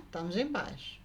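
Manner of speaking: "Estamos em paz" mimicked low and soft; imitating the woman. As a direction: parrot "Estamos em paz" back quietly. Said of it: "E ela me imitando".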